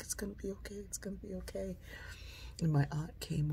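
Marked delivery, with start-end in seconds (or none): 0.0-1.8 even fainter, barely-there comfort; softest soothing whisper. Retold or imitated. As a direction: breathe it to a frightened child. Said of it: "She's like".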